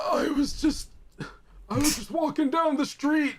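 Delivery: put-on high old-man voice telling his tale; hammed-up grandpa pleading innocence; mock grandpa. Acting Grandpa explaining to Yugi.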